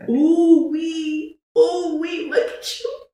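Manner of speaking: high, breathy cooing voice with a laugh; lightly mimicked high coo, slipping into a laugh; high doting coo. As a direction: coo over her like a doting auntie. Retold high character crooning.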